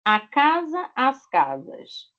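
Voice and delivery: teacher drilling the plural; singular-plural drill. Shown as a demonstration. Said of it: "pra ter o plural".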